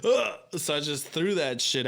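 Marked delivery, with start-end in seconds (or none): 0.0-0.4 short high exclaimed ugh, acted; retold jolt of alarm, pitched up; startled grunt. Retelling the seizure panic on a plane, startled grunt.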